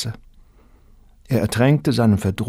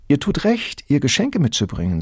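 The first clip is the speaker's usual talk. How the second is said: sly neighbor Santa; 6 semitones higher than usual. A narrator's reading. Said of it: "sagte die Nachbarin Santa".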